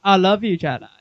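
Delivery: lightly voiced movie impression; Forrest Gump. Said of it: "it's like Forrest Gump".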